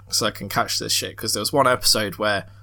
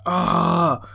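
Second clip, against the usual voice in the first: retold pained groan; 5 semitones higher than usual. Retold reaction to the injection.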